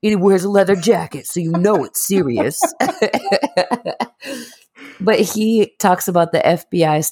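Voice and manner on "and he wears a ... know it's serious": a hint of a solemn crime-show host; mocking the host's serious tone; TV host impression. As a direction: lightly voice a grave TV presenter. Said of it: "That's how he sounds".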